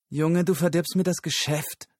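high, hissed complaint; hissing streetwalker. A narrator's reading. Streetwalker hissing at Lyle for spoiling business. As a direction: spit it out through the teeth. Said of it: "zischelte die Dirne".

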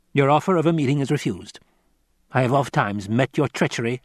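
lightly voiced tenor henchman reading aloud; Piter. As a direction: relay a formal letter to the master.

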